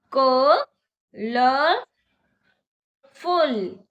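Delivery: कलरफुल stretched very slowly, syllable by syllable; slow demo. Shown as a demonstration. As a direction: drag कलरफुल out for clapping. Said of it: "मेरे साथ बोलिए". (कलरफुल को धीरे-धीरे खींचकर)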